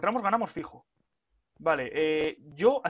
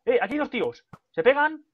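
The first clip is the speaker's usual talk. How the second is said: excited; 7 semitones higher, 5 dB louder than usual. Real, not acted. Spots two players fighting.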